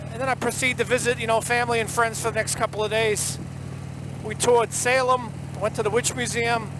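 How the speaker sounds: put-on thick Boston accent storytelling. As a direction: tell it like a Bostonian. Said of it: "in nothing but the Boston accent for ya".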